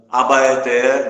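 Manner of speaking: ABAETÉ loud and slow, held on the final é; final stress. Shown as a demonstration. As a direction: draw out the last syllable of Abaeté. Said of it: "Abaeté é acentuado por conta disso". (Abaeté alto e devagar, esticando o é final)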